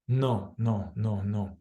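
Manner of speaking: low, quick repeated no's; rapid fire. Shown as a demonstration. Facilitator demonstrating the inner refusal, rapid-fire. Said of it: "I'm doing it fast now".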